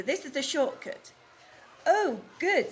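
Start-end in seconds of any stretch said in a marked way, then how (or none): 1.9-2.7 Henny Penny. Acted. Henny Penny voiced in story.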